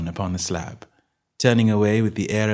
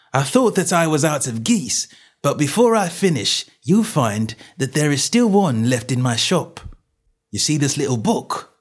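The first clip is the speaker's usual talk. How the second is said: raised, emphatic tradesman's voice; gloating stallholder; 7 semitones higher, 3 dB louder than usual. Acted. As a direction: set up your proof with relish. Salesman gloats over the book.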